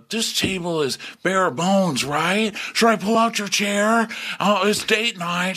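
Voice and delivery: high, slow, cheesy gentleman; mock gallant Shep. Shep showing off to Taylor at dinner, high cheesy. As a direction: play it cheesy and chivalrous. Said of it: "he's like".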